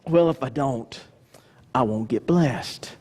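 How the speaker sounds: low, glum self-justifying; dragging, resigned and low; put-on grudging worry; mock reluctant giver. Acts reluctant giver's reasoning.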